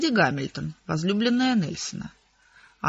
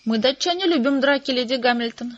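higher, louder charming boast; princely charm; 4 semitones higher, 3 dB louder than usual. A narrator's reading. The prince answers Lady Hamilton with great charm. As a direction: turn on the charm. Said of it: "с непередаваемым обаянием ответил принц".

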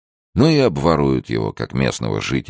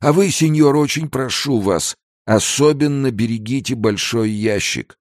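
shouting back; 12 semitones higher than usual. Acted. Old trader shouts back about his big crate, high call. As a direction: call back pleadingly, pitched way up. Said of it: "крикнул в ответ торговец".

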